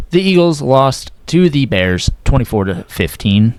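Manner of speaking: flat, robotic monotone reading scores. Real, not acted. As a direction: read it like a robot. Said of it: "Why did I kinda sound like a robot there?".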